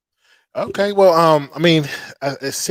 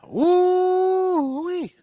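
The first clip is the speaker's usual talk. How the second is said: excited whoop. Real, not acted. Celebrating the game.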